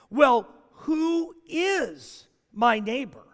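slow, pointed, self-justifying question; a bit of a tone. Acted. Young lawyer pushing back at Jesus, slow and pointed. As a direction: drag it out, testing and defensive. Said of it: "I think there's a little bit of a tone".

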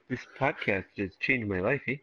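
put-on Canadian accent, lisping the s sounds. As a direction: read it as a Canadian with a lisp. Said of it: "read this as a Canadian with a lisp".

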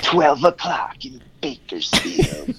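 slow, announcing DJ drawl; radio DJ voice. Retold or imitated. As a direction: play it like a late-night radio host. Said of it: "he would be like".

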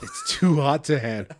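high, loud mock rapper delivery; hood rapper voice. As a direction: throw it out like a rapper. Mock rapper voice quoting lyric.

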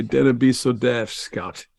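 grandpa's saying in an attempted Scottish accent; imitated Scottish grandpa. Guest quoting his grandpa from Fife to the Scottish host, attempted Scottish accent. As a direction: lightly put on a Scottish burr. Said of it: "my grandpa used to always say".

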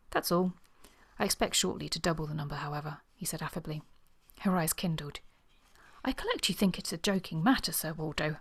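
measured novel reading, characters lightly acted; story narration with dialogue. A narrator's reading. Reading Sir Waldo and Miss Trent's quarrel to listeners, measured story narration. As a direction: read the romance aloud, lifting the dialogue a little. Reads novel excerpt aloud.

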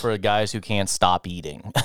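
talking through a mouthful; words round a bite of sandwich; chewing while talking. Real, not acted. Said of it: "You can hear me chomping on a sandwich".

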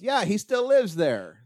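imitated child, high and drawn out; little girl. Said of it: "And she goes".

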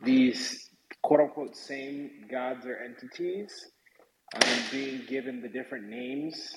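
echoey and far off; speaking in an echoing room; big hall echo. Real, not acted. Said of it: "You sound very echoey and far off".

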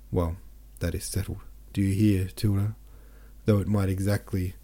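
steady, measured audiobook reading; story narration. A narrator's reading. Host reads Buddenbrooks chapter to listeners, measured narration. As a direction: read the chapter aloud to your listeners.

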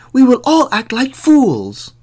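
high, loud chorus of townsmen; crying out agreement. A narrator's reading. Townsmen taking up the plan, high loud cry. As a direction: call it out high and eager. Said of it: "cried the others".

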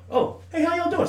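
high, overly sweet bar greeting; smooth greeting. Retold or imitated. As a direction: chat up the ladies in a high put-on voice.

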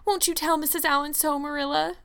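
high-pitched, tearful outpouring; sobbing lament. A narrator's reading. Anne laments to Marilla that she is disgraced, sobbing. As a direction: pour out the disgrace in a high wail. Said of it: "sobbed Anne without looking up".

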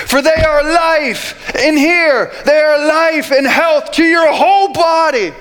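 high, emphatic scripture preaching. Real, not acted. Preacher urging the church to guard their hearts, emphatic preaching. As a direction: drive each phrase home, pitched high.

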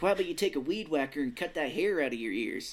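lightly put-on actor's accent, near Minnesotan; Christian Slater impression. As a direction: rib someone in a borrowed actor's voice. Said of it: "that's a Christian Slater voice".

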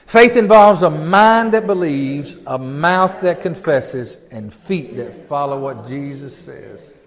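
slow, measured group-reading pace; read-along recitation. Shown as a demonstration. Preacher leading the congregation in reading together, slow and measured. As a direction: stretch each phrase so others can read along. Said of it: "Read that with me, will you?".

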